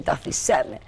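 unvoiced, hushed aside; whisper. Real, not acted. Teller drops into a whispered aside.

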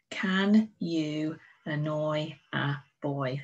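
very slow read-along; teacher reading along with pupils, slowly; slow choral read. Shown as a demonstration. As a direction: read it slowly together with the class. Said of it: "read it with me one more time".

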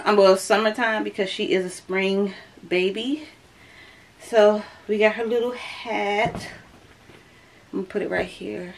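ordinary talk, nothing marked

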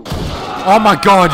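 a slow, stretched oh my god, caught off guard; drawn-out oh my god. Real, not acted. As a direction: let it hang in stunned disbelief. Just got no-scoped in game.

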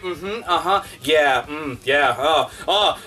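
low, lazy nodding along; mindless agreeing. Retold or imitated. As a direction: mumble empty agreement like a sheep. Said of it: "And people are like".

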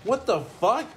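high, hammed-up gamer outrage; mock rage. Player mimicking friend's rage quit, high mock outrage. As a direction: imitate a rage quitter's indignant cry. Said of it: "you kept rage quitting 'cause you're like".

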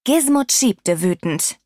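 ordinary delivery, nothing marked

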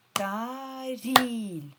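ТАРІЛЬ loud and high, stretched TA-RIL; two syllables. Shown as a demonstration. Teacher shows why there are two parts, by syllables. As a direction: call out ТАРІЛЬ in two long beats. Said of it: "Тому що два склади".

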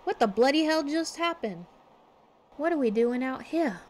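startled then matey, in amateur Australian; Kid's attempted Australian accent. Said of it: "I wish Kid did not like talking".

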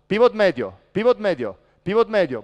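calling out. Shown as a demonstration. Coach demonstrates defensive calling.

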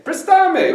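"Prestame" stressed on STA, pitched high; missing accent. Shown as a demonstration. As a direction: punch the middle of "Prestame", pres-TA-me. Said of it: "If I don't put that accent mark".

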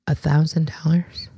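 whispered disbelief, drawn back from full voice; stunned whisper. Retold or imitated. Stunned reaction to the quoted price.

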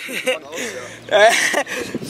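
high, loud laughing shout. Real, not acted. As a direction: crack up while yelling. Mocking friend's botched job.

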